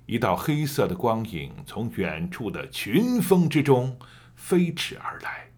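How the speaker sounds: one long breath, stress on 群; all in one breath. Shown as a demonstration. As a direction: read it through without pausing. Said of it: "一口气把这句话读完".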